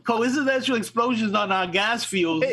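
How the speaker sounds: mocking laugh on the words; chuckling while repeating the excuse; laughing through it. Real, not acted. Friend laughing at Russia's coincidental explosions excuse.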